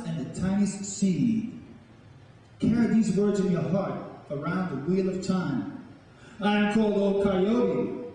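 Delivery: slow, measured poetry performance with long pauses; a storyteller's incantation, each line given weight; spoken-word poem. Acted. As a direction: recite it like an elder telling the old stories to a crowd.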